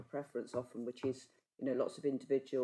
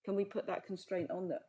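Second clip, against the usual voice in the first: muffled by scarf. Real, not acted. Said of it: "I'm really sorry about this scarf on my face".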